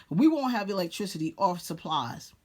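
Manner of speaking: chuckling through the repeated line; laughing repeat. Real, not acted. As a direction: laugh it off as you say it again. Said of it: "but we won't have electricity".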